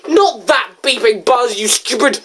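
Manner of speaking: exasperated telling-off, cut short; mock exasperation. Reviewer scolding over the wrong Buzz being shown, mock exasperation. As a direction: scold in comic irritation, breaking off.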